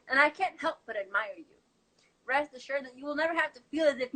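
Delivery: rhythmic slam-poetry delivery in flowing phrases; spoken-word poem. Acted. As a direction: recite it as an earnest address to a loved one. Performs own spoken-word poem.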